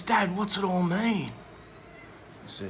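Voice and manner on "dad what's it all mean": slow earnest question. Retold or imitated. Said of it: "He goes".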